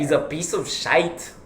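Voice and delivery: imitated Irish brogue; Irish accent. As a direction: draw it out in a put-on Irish accent. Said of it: "that's how Irish, that's Irish".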